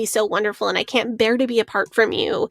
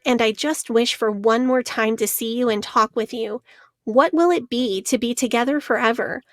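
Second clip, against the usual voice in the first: reading a love letter. Shown as a demonstration. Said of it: "here's the letter".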